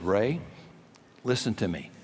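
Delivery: steady, soft reassurance to a scared co-pilot; calm, quiet. Retold or imitated. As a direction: keep it low and level, never raise the voice. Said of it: "I never raised my voice".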